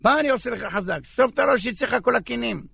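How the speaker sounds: mildly acted exasperated father; irritated scolding. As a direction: brush off the child's complaint impatiently. Father scolds child while scrubbing head.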